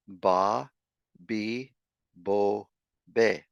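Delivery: "ba, bi, bo, be" with long vowels; long vowel syllables. Shown as a demonstration. Teacher drilling long-vowel syllables with b. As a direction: drill "ba, bi, bo, be" one by one. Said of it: "With the ba sound".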